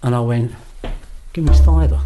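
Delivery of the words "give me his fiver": sudden loud higher demand. Retold or imitated. Retelling demanding the inmate's fiver, loud and high. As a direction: bark the punchline out for the laugh.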